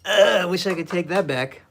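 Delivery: loud high lament over a ruined stroke; anguished cry. Real, not acted. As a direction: wail it out like the mistake hurts. Painter regrets a blob of paint.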